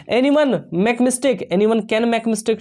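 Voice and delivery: each word slow and spaced; slow dictation read. Shown as a demonstration. Teacher to students, reading the example slowly.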